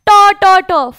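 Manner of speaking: ट said as a hard retroflex T; retroflex T sound. Shown as a demonstration. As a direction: tap out ट, ट sharply with the tongue curled back. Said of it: "French में ट word होता ही नहीं है".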